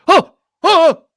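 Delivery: put-on high, loud excited baby "oh!"; imitating a thrilled baby; delighted baby gasp. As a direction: coo out sudden delight like an infant. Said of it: "gets this expression on his face like".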